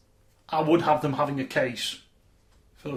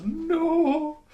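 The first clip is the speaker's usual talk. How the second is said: curt refusal; 14 semitones higher than usual. Retold or imitated. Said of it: "And the one goes".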